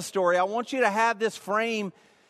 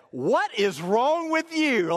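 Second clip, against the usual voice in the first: puzzled wife; 4 semitones higher, slower than usual. Retold or imitated. Wife reacts to his swollen face.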